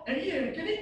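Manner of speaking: doubting. Retold or imitated. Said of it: "Itu ragu lah tu".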